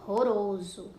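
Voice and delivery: "Ronroroso" in separated syllables, strong breathed first R; strong R demonstration. Shown as a demonstration. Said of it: "ele tem um som forte". ("Ronroroso" silabado, com R forte no começo)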